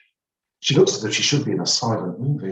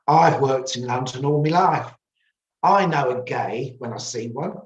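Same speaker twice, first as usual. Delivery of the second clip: lightly voiced indignant old woman, higher; adamant shop owner; 5 semitones higher, 4 dB louder than usual. A narrator's reading. Shop owner contradicting the narrator, adamant. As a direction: insist you know better.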